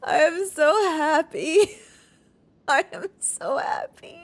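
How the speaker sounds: happy tears. Real, not acted. Tearful joy.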